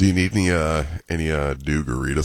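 hoarse, congested sick voice. Real, not acted. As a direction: talk through a heavy cold. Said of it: "You got the sick voice".

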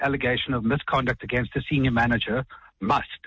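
must leaned on firmly; stress on must. Shown as a demonstration. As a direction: hit the word must as a legal demand. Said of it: "and I emphasize the word must".

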